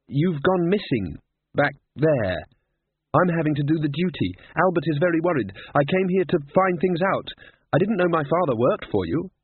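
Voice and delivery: tumbling, urgent explanation; Susan. Acted.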